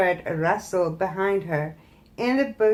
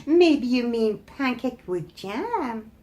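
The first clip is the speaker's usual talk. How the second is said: mocking; 3 semitones higher than usual. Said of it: "she mocked them".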